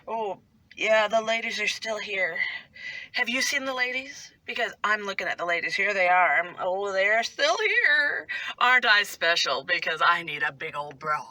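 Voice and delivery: lightly hammed-up self-admiring girl; playful mimicry of a preening schoolmate; mocking schoolgirl imitation. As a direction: show off with mock self-importance. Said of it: "we would imitate her".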